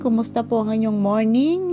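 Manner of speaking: ordinary talk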